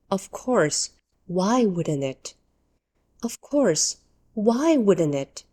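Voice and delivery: dry, resigned complaint; dry, unsurprised. Shown as a demonstration. English teacher models a complaint, dry and unsurprised. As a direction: say it like you knew it would happen. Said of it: "You say it quietly".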